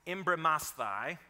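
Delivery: embrimasthai, spelled out slowly and clearly; Greek word said slowly. Shown as a demonstration. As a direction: say embrimasthai carefully, syllable by syllable. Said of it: "I'll just tell you, it is".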